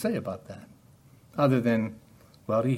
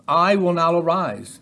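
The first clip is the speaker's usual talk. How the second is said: raised, louder divine declaration; loud proclamation; 4 semitones higher, 6 dB louder than usual. Acted. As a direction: proclaim it higher and louder, like God rising. Quoting the Lord rising.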